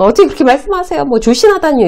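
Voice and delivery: wrong way, getting riled by a senior's teasing; flaring up. Shown as a demonstration. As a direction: bristle and snap back. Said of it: "이렇게 발끈하면서".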